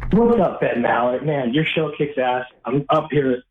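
echoey speakerphone in a bathroom. Real, not acted. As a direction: sound like a speakerphone in a tiled room. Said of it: "It sounds like you're on speakerphone in a bathroom".

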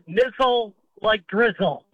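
Nizzle said slowly, rhyming with drizzle; pronunciation demo. Shown as a demonstration. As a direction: sound out Nizzle to rhyme with drizzle. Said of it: "how do you pronounce your last name".

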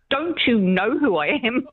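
drawn-out, frustrated demand to be recognised; retold frustration. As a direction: imitate an exasperated man pulling rank, stressing each word. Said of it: "he got so frustrated with me".

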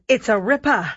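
amateur attempt at an Australian accent; bad Australian accent. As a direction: imitate an Aussie renovation-show host. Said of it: "My Australian accent is absolutely abysmal".

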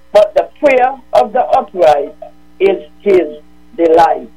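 measured, solemn Bible reading; scripture reading. Acted. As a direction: read each verse like a Sunday lesson. Mary reads Proverbs on radio.

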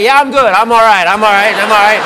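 loud, insistent mock reassurance; hasty reassurance. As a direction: cover up discomfort, too loudly. Insisting he is fine to stranger.

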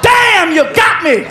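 long high groan, then hammed-up concession; mock pranked man. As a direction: imitate a man caught by a prank. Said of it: "and he's like".

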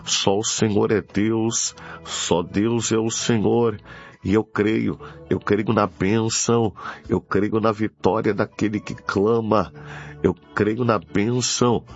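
normal talking voice

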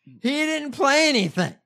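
high, loud, drawn-out incredulity; loud disbelief. Real, not acted. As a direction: hammer each word out slowly in outraged disbelief. Incredulous at absurd copyright strike.

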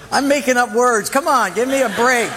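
laughing at his own slip; laughing while admitting he made up words. Real, not acted. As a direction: giggle through the excuse.

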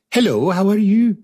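high-pitched queen with a bad Welsh accent; attempted Welsh accent. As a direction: greet grandly in a badly faked Welsh lilt. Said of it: "I imagine the future Queen of Spain, she's going".

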